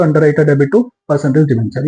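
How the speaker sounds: slow, even dictating pace; dictating a journal entry at half speed; slow dictation. Shown as a demonstration. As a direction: spell the entry out slowly for students to copy.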